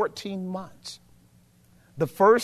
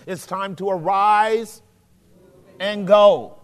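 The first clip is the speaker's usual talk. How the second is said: rising preacher call; 6 dB louder, slower than usual. Real, not acted.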